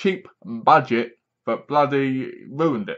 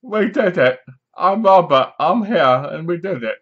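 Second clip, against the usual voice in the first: a hint of a cheering Robert, higher; mock triumphant Robert; 4 semitones higher, 4 dB louder than usual. Robert proudly announces that the plan worked, mock excited. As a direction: lightly mimic a proud shout of success. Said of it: "Robert goes".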